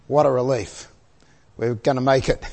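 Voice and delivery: relieved, after a big exhale; sighing relief. Retold or imitated. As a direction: let it out softly as the weight lifts. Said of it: "Can you imagine the relief".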